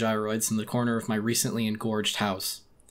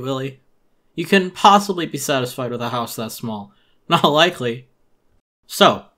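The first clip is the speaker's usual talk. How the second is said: Tom Nook voice; 3 semitones higher, 7 dB louder than usual. Acted. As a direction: sell it like a pushy merchant greeting a customer.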